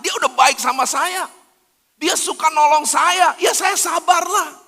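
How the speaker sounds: rising to a shout of grudging patience; hammed-up churchgoer yelling his conditions for patience; mock grudging believer. Preacher mocking a petty believer, building to a shout.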